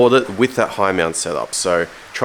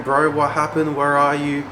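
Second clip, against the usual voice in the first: higher, urgent questions from a worried friend; frantic mate; 5 semitones higher than usual. Retold or imitated. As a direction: fire off the questions like a panicked mate. Mate Rex frantically texting him.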